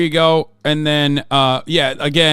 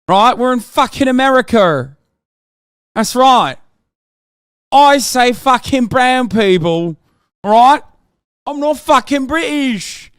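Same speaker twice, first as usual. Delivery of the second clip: high, loud and defiant; loud rant; 8 semitones higher, 5 dB louder than usual. Real, not acted. Streamer loudly defending herself against chat's correction. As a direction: shout down the correction. Heated rant answering chat.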